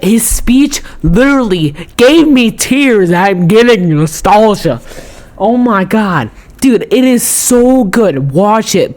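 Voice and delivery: loud, high excited fan rave; gushing. Real, not acted. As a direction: rave about it to a friend. Gushing about Days of Future Past.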